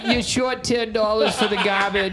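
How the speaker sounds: put-on old Jewish grandmother voice. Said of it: "Making fun of Jewish grandmothers".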